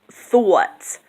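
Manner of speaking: "thought" stretched into thoo-aht; ua diphthong. Shown as a demonstration. Showing the double sound, "thought" said thoo-aht. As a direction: say "thought" with a two-part oo-ah vowel. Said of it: "it's a ua though".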